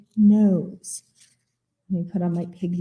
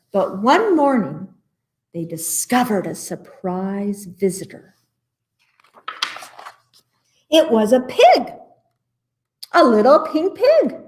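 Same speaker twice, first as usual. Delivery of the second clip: put-on picture-book reading for children; animated storytime narrator; story narration. A narrator's reading. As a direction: read it to little listeners, lifting the surprises.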